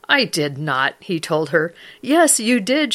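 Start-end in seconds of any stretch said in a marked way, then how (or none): 0.1-0.9 low-pitched acted disbelief; retold denial. Husband answers his excited wife, low retold denial. Husband flatly denies wife's news. 2.0-2.9 shot back. Retold or imitated. Wife contradicts her doubting husband, acted high-pitched retort. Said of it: "she shot back".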